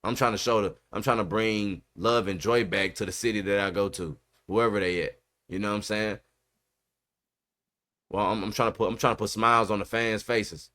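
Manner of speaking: lightly voiced player, soft, low and quick; player's earnest pitch. Host voicing what the prospect should say, soft earnest pitch. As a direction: quietly play the humble prospect. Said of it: "don't pick me".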